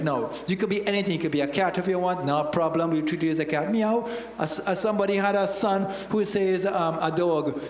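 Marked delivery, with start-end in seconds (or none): 3.7-4.1 higher, spoken-out meow; playful imitation of a cat; mock cat meow. Preacher mocking people identifying as cats, mock meow.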